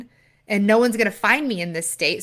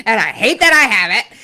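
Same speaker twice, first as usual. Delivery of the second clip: laughing confession; 8 dB louder than usual. Real, not acted. Laughing confession after her laugh.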